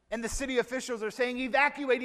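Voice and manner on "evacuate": calling out the order to evacuate, raised; urgent order. Acted. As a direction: officials warning a town about the flood, urgent call. Officials ordering flood evacuation.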